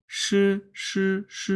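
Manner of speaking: "স" as a light hiss; light air. Shown as a demonstration. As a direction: let a little air out on each "স". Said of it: "হালকা পরিমাণ". (হালকা বাতাসে "স")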